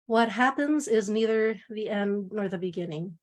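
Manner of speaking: measured poem recitation; poetry reading. Acted. Poet reading the title poem to a seminar audience, measured recitation. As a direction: open the poem with deliberate, even phrasing.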